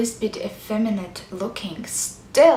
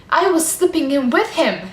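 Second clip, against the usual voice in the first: higher, urgent pained recall; distressed confession; 4 semitones higher, 4 dB louder than usual. Acted. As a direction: let the distress lift the voice. Distressed memory of sinking with him.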